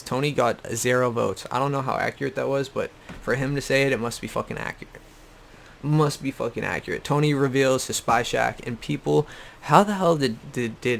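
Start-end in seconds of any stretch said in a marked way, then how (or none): 3.9-5.0 fast and softer, thrown away; quick dry sarcasm; quick sarcastic aside. Real, not acted. Sarcastic, said twice. 5.8-7.0 full voice, even and deliberate; dry deadpan sarcasm; deadpan sarcastic repeat. Real, not acted. Sarcastic, said twice.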